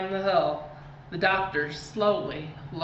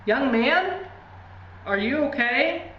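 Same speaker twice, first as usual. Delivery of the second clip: distant voice; 6 semitones higher than usual. A narrator's reading. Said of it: "said a distant voice".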